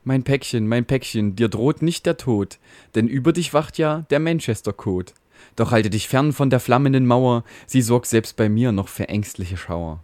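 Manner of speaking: lightly voiced fatherly router, calm and reassuring; a hint of a caring father in a mock ballad; soothing router. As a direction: comfort the frightened little packet in rhyme.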